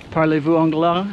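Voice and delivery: stiff American-accented French; rusty school French, hesitant; foreign accent in French. Shown as a demonstration. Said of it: "Oh, see, I can't even do it".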